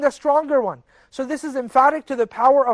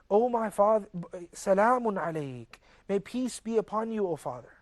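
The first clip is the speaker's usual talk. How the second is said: gentle and polite; 5 dB quieter than usual. Retold or imitated. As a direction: answer the angry father with calm peace. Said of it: "in a very, very beautiful and polite manner".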